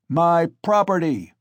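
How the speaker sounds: loud bloodshot roar; angry shout. A narrator's reading. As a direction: roar in drunken fury. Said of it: "shouted Mikolka".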